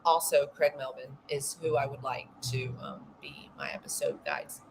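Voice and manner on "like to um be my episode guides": breathless laugh through the words; whispered laugh. Real, not acted. Joking to listeners about true-crime hosts, whispered laughing.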